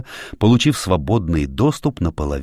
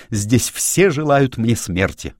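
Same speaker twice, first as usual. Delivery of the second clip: higher, slow, restrained outcry; crying out; 5 semitones higher, slower than usual. A narrator's reading. Pavel fears everyone wants him dead, restrained outcry. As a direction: drag out the accusation at raised pitch. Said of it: "закричал Павел".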